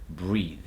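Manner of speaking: "breathe" ending in a buzzing TH; final voiced TH. Shown as a demonstration. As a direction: hold the TH at the end of "breathe". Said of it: "they're gonna happen at the end".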